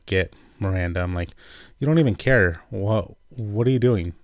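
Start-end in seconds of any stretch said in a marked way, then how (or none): 1.8-4.1 exasperated retort. Retold or imitated. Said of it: "I already don't like the singer".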